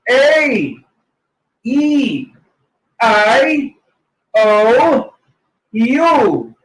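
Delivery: A E I O U with wide mouth; teacher drilling the vowels one by one; exaggerated vowels. Shown as a demonstration. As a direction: open the mouth big on each vowel. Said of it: "the mouth formation will be somewhat like bigger".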